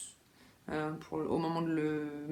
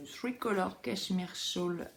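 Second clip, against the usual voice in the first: put-on slow, careful English accent on the yarn name; showing off her dream English accent, slowly; self-mocking English accent; slower than usual. Knitter naming a shawl pattern for viewers, in a self-mocking English accent. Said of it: "avec mon accent anglais de rêve".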